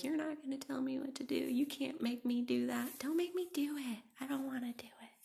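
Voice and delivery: put-on high, childish defiant rebel voice; defiant inner rebel. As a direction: sulk and refuse like a stubborn kid. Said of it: "my inner rebel who's like".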